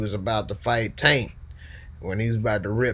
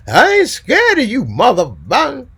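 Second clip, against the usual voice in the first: much higher, shouted mock threat; mock tough guy; 14 semitones higher, 11 dB louder than usual. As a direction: bark it like a movie tough guy. Impersonating caller Sam Jack.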